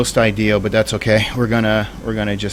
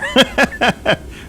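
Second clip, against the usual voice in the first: sudden high-pitched laugh. Real, not acted. Laughing at own exaggeration.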